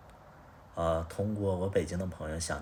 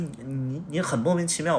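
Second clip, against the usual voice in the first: retold exasperated outburst; 6 semitones higher than usual. Retold quarrel with ex.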